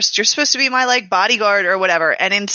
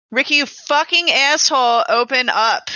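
yelling; 4 semitones higher than usual. Pretend. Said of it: "So I'm just gonna start yelling".

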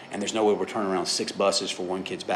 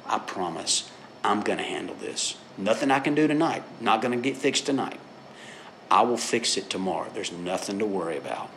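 reassuring dad. Retold or imitated. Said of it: "get down on my knees right in front of him and say".

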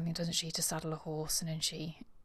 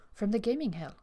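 impatiently; 4 semitones higher than usual. Acted. Eustace repeats herself to Sir Tristram, mildly impatient. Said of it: "repeated Eustace impatiently".

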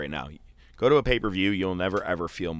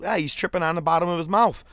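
wife's joke; 10 semitones higher, 5 dB louder, faster than usual. Retold or imitated. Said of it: "she goes".

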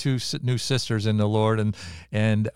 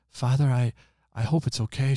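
little voice; 5 semitones higher than usual. Retold or imitated. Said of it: "I hear a little voice".

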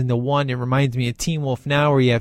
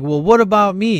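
higher, louder mock-hurt protest; whiny Death; 5 semitones higher, 3 dB louder than usual. Death left out of the praise, mock-whiny. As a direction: Death fishing for credit, whining.

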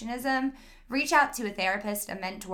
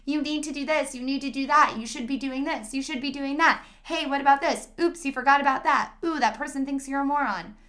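a touch of a harsh drill sergeant, higher and faster; 4 semitones higher, 4 dB louder, faster than usual. Shown as a demonstration. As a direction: bark demands like a drill sergeant. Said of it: "this intense drill sergeant voice of".

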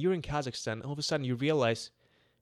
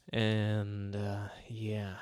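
whispering; 2 semitones lower, much slower than usual. Real, not acted. Trails into whisper.

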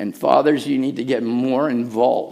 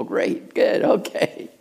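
mumbled son; 6 semitones higher, slower than usual. Retold or imitated.

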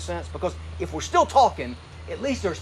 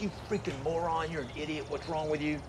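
soft, muttered self-insult; harsh self-talk; 6 dB quieter than usual. Retold or imitated. Student blanking on a test insults himself, muttered softly. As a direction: berate yourself under your breath. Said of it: "you're just like".

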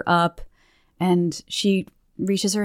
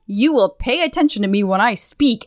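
Mamajaru; 2 semitones higher than usual. Acted. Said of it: "Mamajaru picks up on this vibe".

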